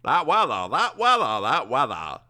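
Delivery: put-on one-note old man, repeating himself. Old man harping on one note about the storm, hammed-up. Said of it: "He's a bit one note".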